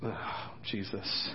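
breathless laugh through the words. Real, not acted. Preacher cracking up at his own rant, laughing. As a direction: dissolve into giggles.

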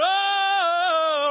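held cheering roar; crowd roar. Retold or imitated. Students chanting outside a house, sustained roar. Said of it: "we just stand there going".

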